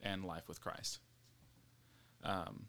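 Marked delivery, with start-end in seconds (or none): 0.0-1.0 breathless, trailing off quietly; running out of air; out of breath. Real, not acted. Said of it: "I'm out of breath".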